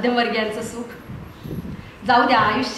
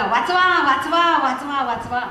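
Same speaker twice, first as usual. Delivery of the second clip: retold cry of help, pitched up; 3 semitones higher than usual. Husband yelling for help down the hill. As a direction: yell for help as the car runs away. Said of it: "जोरात ओरडायला लागला".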